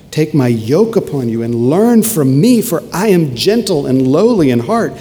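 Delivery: ringing scripture quotation with swelling stresses; emphatic preaching. Acted. Preacher quoting Jesus' gentle invitation to learn, emphatic. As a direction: proclaim the verse with conviction.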